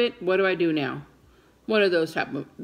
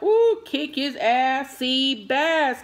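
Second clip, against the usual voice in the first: rowdy cheering on; 5 semitones higher, 4 dB louder, much slower than usual. Retold or imitated. Retells cheering on movie heroine.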